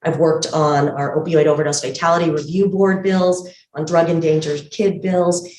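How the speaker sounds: muffled speech through a mask; talking behind a medical mask; through a face mask. Real, not acted. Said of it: "hopefully you can hear me through the mask okay".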